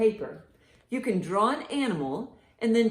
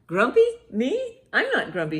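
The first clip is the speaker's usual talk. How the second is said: grumpy denial; 5 semitones higher, 5 dB louder than usual. Acted. Grumpy monkey denies again.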